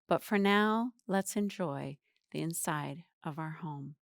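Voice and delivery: measured poem recital with pauses; poem reading. Acted. Teacher reading a student's quarantine poem to viewers, measured recital. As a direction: read it out as verse, line by line.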